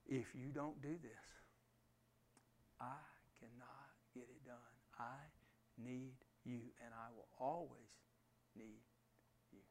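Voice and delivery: soft broken whisper of surrender; whispered prayer. Shown as a demonstration. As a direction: whisper it as a desperate plea. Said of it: "reach up to God and say".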